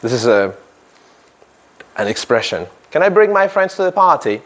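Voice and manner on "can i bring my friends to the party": bright, higher friendly question; teacher voicing a party guest, higher and eager; party guest asking.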